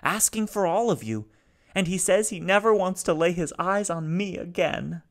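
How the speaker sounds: high, loud, rasping despair; raspy robot. A narrator's reading. Grieving robot begs the family to kill him, raspy and high. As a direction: rasp it out, begging to die. Salo continues.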